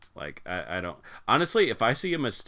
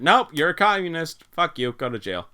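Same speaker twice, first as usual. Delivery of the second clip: mock accusing shout; 7 semitones higher, 5 dB louder than usual. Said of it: "But I never said".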